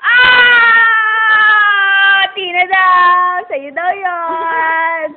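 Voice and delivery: loud drawn-out wail, slowly tailing off; hammed-up bawling; wailing cry. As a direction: cry it out in long, stretched vowels.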